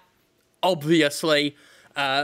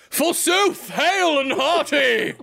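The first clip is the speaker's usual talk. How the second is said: much higher, hammy archaic cheer; medieval baron; 10 semitones higher, 4 dB louder, much slower than usual. Pretend. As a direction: boom it like a jolly baron. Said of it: "he's gonna be a medieval baron".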